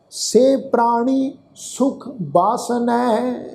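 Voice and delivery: slow, measured Gurbani recitation; scripture recitation. Shown as a demonstration. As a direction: draw out each word of the verse, evenly paced. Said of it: "ਸਮੁੱਚਾ ਪਾਠ ਉਚਾਰਨ ਕਰਦੇ ਹਾਂ". (ਹੌਲੀ, ਠਹਿਰ ਕੇ ਗੁਰਬਾਣੀ ਪਾਠ)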